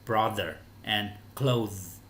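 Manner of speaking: brother and clothes slowly, with voiced th; slow model of the th in brother and clothes; voiced th demo. Shown as a demonstration. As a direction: draw out the buzzing th in brother, clothes. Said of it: "đọc là âm the".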